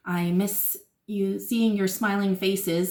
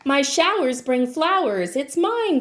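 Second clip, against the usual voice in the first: louder proud rain cry; 3 semitones higher, 4 dB louder than usual. Acted. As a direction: call it out like a downpour. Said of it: "cried the rain".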